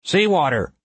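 high, falling groan of dismay; moaned. A narrator's reading. Pilot tasting a leak in the hull, dismayed moan. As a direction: moan it out, pitch sliding down. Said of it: "he moaned".

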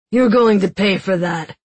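loud threat through pain; threatening guard. Acted. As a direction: promise her payback. Guard threatens after nose broken.

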